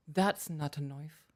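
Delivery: slow Australian accent, "knife" as "noif"; unthreatening attempt at an Aussie movie line. Shown as a demonstration. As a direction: deliver it slowly, trying an Aussie accent. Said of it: "I was just trying to get the accent".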